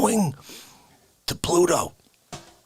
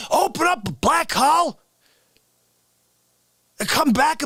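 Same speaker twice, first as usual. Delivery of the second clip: higher, mock outraged scolding; indignant; 6 semitones higher than usual. Character scolding cohost for no respect, mock outraged. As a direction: scold him with hammed-up outrage. How Dare You Guy rant.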